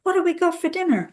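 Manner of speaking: breezy false cheer. Retold or imitated. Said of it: "As if nothing has happened".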